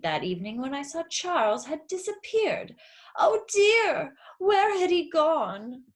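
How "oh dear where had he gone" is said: high, louder, slow worried cry; alarmed fretting. Acted. Mother who lost her son, alarmed and slow. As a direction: fret as the son has vanished.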